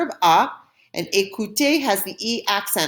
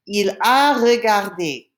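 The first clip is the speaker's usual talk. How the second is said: slow, louder French teaching model; slow model pronunciation; 4 dB louder, slower than usual. Shown as a demonstration. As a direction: spell it out slowly for learners. Teacher models French phrase for learners.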